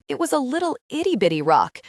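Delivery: high, whiny howl; howling protest. A narrator's reading. Boy protests to his counselor, high whiny howl. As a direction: howl it like a kid caught out. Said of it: "Shane howled".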